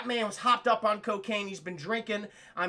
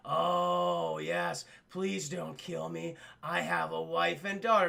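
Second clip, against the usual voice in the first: mock pleading; 4 semitones lower, slower than usual. Disguised cop faking a plea on the phone, low slow voice. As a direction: drawl a fake plea.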